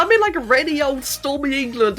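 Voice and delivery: high-pitched, playful complaint about missing snow; mock lament. Real, not acted. Streamer in England moaning to viewers about snow, mock lament. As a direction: wail it in exaggerated protest, pitched well up.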